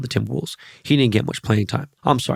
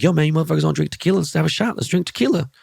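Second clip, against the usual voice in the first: hyped invite; 6 semitones higher, faster than usual. Retold or imitated. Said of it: "And I was like".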